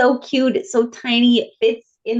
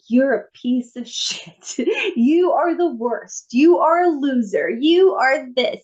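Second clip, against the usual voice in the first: mock self-scolding; 4 semitones higher than usual. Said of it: "telling myself".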